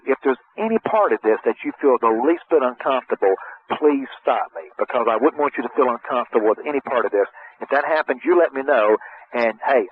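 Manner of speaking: reassuring buffer. Shown as a demonstration. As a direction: put the folks at ease, let them stop you. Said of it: "Doesn't that sound a lot better".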